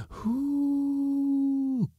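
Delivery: long falsetto hoot; high cry. A narrator's reading. Hidden voices haunt the sleeper, high wailing cry. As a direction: hold a very high, steady "hoo". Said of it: "cried the voices".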